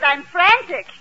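put-on excited Yiddish-accented housewife; comic fluster in a Yiddish accent; frantic. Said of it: "you look excited".

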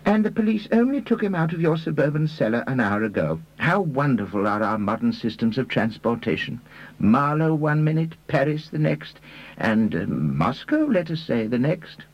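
high-pitched, musing character voice; Reader. Acted.

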